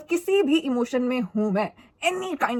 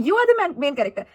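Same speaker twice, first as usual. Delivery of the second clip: much higher, louder Bollywood dialogue; filmy hero line; 3 semitones higher, 3 dB louder, much slower than usual. Pretend. Mocking her filmy teenage self, hammed-up hero line. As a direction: belt it like a movie punchline.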